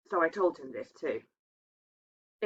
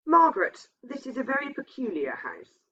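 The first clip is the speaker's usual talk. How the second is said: uneasy confiding; 6 semitones higher than usual. A narrator's reading. Husband confides his fear.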